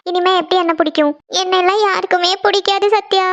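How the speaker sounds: mildly weepy self-pity; tearful. Acted. Rejected girl confides to her friend, mildly tearful. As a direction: lament it, close to tears. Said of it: "நீ அழாத நந்தினி".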